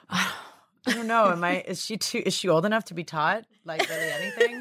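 squeals into high laughter; laughing. Real, not acted. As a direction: laugh the question out in disbelief. Laughing at the absurd idea.

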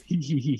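mock high-pitched giggle; playful "hee hee" impression of a giggler; imitated giggle. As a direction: imitate his giddy little laugh. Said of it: "when he just goes".

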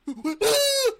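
high, wordless overacting noises; mock character impression. Co-host parodies the show's overacting main character, high mock impression. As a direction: squeal like a hammed-up overactor. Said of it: "That's my impression of him".

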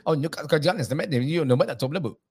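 rough attempt at a Geordie accent; badly faked Newcastle accent with swooping tune. Shown as a demonstration. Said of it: "It's even harder in Newcastle".

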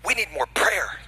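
a hushed whisper to make the point land. Real, not acted. Preacher whispers the key line to his congregation. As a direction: whisper it, unvoiced, to draw them in.

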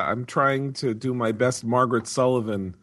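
raspy laryngitis voice; hoarse from a cold. Real, not acted. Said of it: "suffering from some kind of laryngitis-y thing".

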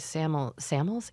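"samels" for samples, middle p swallowed; mumbled slip. Real, not acted. Host tripping over the word samples, mumbled "samels". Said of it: "why am I mumbling over my words".

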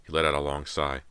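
ordinary delivery

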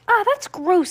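high exclamation of disgust. A narrator's reading. Heidi to brother who spat out candy, disgusted. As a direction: recoil at something slimy.

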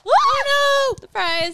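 sudden high yelp of alarm; real startled cry, loud and high; surprised. Real, not acted. Something spills at pool chat.

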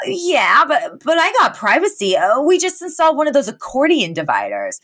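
high-pitched character voice; defensive protest. Retold or imitated. Val defending living with parents, defensive protest. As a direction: protest proudly, pitched well up.

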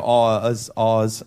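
"ahs" with the R dropped; R turned soft. Retold or imitated. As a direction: imitate a child's soft R in "ahs". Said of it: "all his R's are, like, W's".

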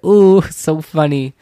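loud slow laughing ooh; laughing at own joke. Real, not acted. Vlogger laughs at her own roast, loud.

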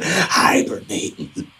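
hushed whisper. Acted. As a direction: breathe the word like a secret. Describing quietly breathing sleepers.

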